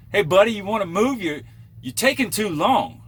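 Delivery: high, loud impatient northern whine; annoying northern accent. Retold or imitated. Trucker mocking the impatient driver in a northern accent. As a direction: nag him in that northern accent to hurry. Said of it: "annoying northern accent".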